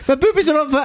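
very high, hammed-up Scottish falsetto; Missus Doubtfire. Host outdoing co-host's film impression, silly falsetto. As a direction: squeal it as a daft Scottish matron. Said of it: "Robin Williams in Missus Doubtfire".

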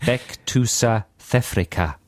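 slow put-on South African accent; careful fake South African accent; phonetic South African accent. Shown as a demonstration. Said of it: "This is another South African one".

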